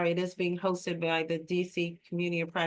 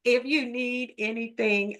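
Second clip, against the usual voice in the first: real laugh breaking in, higher and louder; amused, raised voice with chuckles; 7 semitones higher, 4 dB louder than usual. Real, not acted. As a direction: laugh through an open invitation. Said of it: "I'm laughing".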